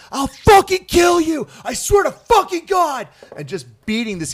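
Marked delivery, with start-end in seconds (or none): 0.1-3.1 shrill, very loud, drawn-out enraged screaming. Retelling a drill instructor beating someone up: imitating someone screaming. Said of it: "yelling at him, screaming like".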